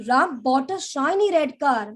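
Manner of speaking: "bought" hit firmly; stress on bought. Shown as a demonstration. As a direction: push the weight onto "bought". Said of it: "my stress on that is bought".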